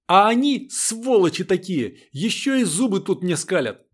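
high, loud shouting through tears; tearful yell. A narrator's reading. Светка screams at the girls through tears. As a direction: scream at them, crying with rage. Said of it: "сквозь слёзы выкрикнула".

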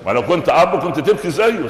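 lightly voiced clueless son, pitch climbing toward the end; foolish son. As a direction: play a naive son questioning his father, lightly. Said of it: "والولد من هبل يقول لك".

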